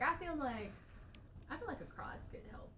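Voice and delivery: hushed, secretive whisper; spooky whispered aside. Real, not acted. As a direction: breathe it like a ghost might hear.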